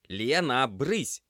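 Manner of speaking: loud, high bark to shoo her off; barked order. Acted. Semyon barks at Lena, loud and high. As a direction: snap her away from the mess, loudly. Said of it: "гаркнул Семён".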